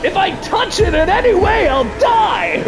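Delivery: high-pitched panicked protest; panicking. Real, not acted. Streamer with a lemur in their face, panicking. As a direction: protest at the top of your range in panic. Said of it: "Of course I'm panicking".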